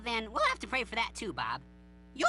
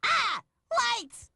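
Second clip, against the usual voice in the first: high, loud yelp of alarm; startled panic; 8 semitones higher, 4 dB louder than usual. Acted. Larry to Bob when the lights go out, panicked. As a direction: cry out as the dark hits.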